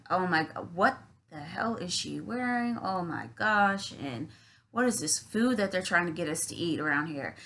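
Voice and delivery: judgmental grumbling. Retold or imitated. Sitting in the corner judging the party, mild sullen grumble. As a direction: grumble disapproval under the breath.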